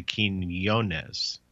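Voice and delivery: Quinones as keen-OH-nez. Shown as a demonstration. The speaker demonstrates his surname, Quinones. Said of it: "then you go into the".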